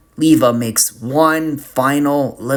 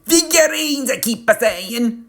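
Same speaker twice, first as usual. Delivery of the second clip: retorting; 11 semitones higher than usual. Acted. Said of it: "the client retorts".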